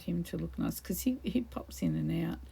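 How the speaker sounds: unvoiced whisper about her husband; whispered aside. Real, not acted. Telling viewers about her husband, whispering. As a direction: let it slip out as a whisper.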